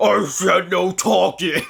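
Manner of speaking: rough, gravelly, gruff, grumbling growl. Recounting laughing during gameplay at another player, imitating his gravelly, grumbly voice. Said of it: "real gravelly, grumbly voice of like".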